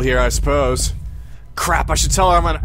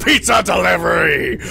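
shouted title. Acted. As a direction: bellow the game title. Hyped game title announcement.

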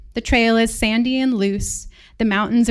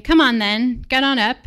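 coaxing; 3 semitones higher, 5 dB louder than usual. Retold or imitated. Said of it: "He coaxes me".

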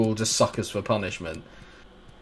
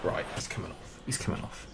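whispered; 3 semitones lower, 11 dB quieter than usual. Real, not acted. Fed-up decision to sub player.

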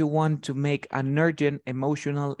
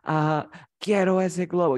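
lightly voiced pleading child, a bit higher; begging kid; 4 semitones higher than usual. Shown as a demonstration. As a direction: plead a little, like a kid wanting something. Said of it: "you know, like a kid".

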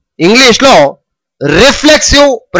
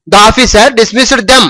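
slow, careful model sentence read to students; slow dictation; much slower than usual. Shown as a demonstration. Teacher reading an example slowly to the class. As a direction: spell out each word slowly. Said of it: "teacher reads model sentence".

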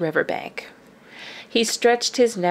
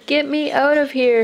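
higher, louder stuck yell; 8 semitones higher, 4 dB louder than usual. A narrator's reading. Father stuck in the river mud, yelling. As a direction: holler from the mud. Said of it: "he yelled".

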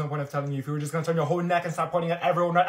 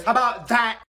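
shouted catchphrase; 5 semitones higher, 11 dB louder than usual. Acted. Recurring loud catchphrase.

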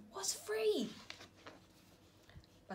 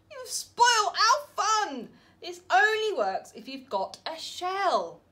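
loud, higher indignant scolding; cross snails; 8 semitones higher, 8 dB louder than usual. Acted. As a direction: tell him off, offended.

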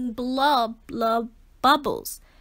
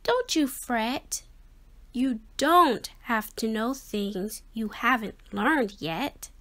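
soft kind voice. Acted. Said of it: "a soft, kind voice said".

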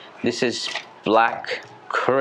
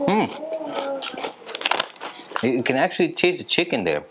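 chewing while talking; mouth full of chips; 8 semitones higher than usual. Real, not acted. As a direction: between bites of crisps. Seen 1: Bit chip at -1.0, talks holding chip, bites again at 1.5.

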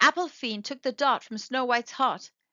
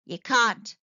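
sneering; 4 dB louder than usual. Acted. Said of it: "sneered the fiend".

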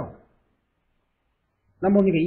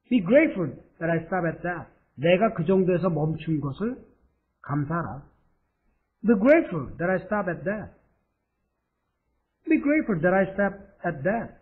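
slow model read; slower than usual. Shown as a demonstration. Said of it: "teacher models the sentence".

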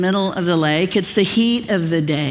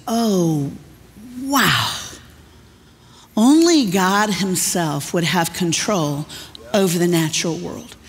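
grizzled fisherman. Retold or imitated. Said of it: "this grizzled fisherman goes".

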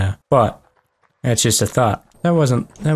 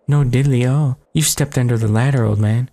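cocky character voice. Acted. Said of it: "That's the voice I'm gonna give this guy".

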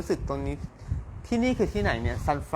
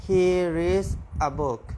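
slow model sentence; 3 semitones higher, much slower than usual. Shown as a demonstration. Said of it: "ถ้าจะแยก".

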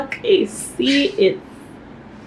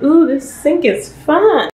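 delighted; 4 semitones higher, 5 dB louder, slower than usual. Real, not acted. Delighted at the sink.

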